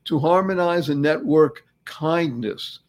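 slow, deliberate "harmonize"; slow repeat. Shown as a demonstration. Host repeating his acronym, slow. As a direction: lay out each word slowly. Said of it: "Thanks stands for".

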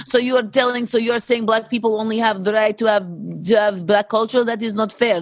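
indignant mock Russian accent. Voicing offended Russian girls, mock Russian accent. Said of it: "let me get the Russian accents".

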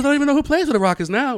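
high, loud mock Houston accent; thick Houston accent. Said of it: "everyone has the thick accent".

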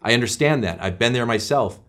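gloss it over indulgently, pitch slightly lifted; lightly acted, too-easy sympathy; pandering. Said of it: "you can pander to them and say".

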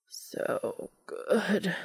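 understated, drawn-out groan. A narrator's reading. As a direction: let the words out as a groan. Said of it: "Cass groaned".

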